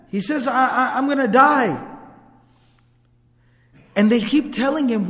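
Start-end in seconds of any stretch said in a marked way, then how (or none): 0.5-1.8 raised, higher-pitched cry of alarm; mild acted scream. A man cries to his family that he's dying, mildly panicked. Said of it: "he keeps on screaming".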